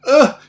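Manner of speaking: loud, strained "ugh"; retold groan. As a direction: re-enact a grunt of pained effort. Retold groan while obeying.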